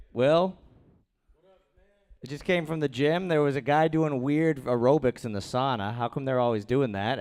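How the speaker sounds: ordinary talk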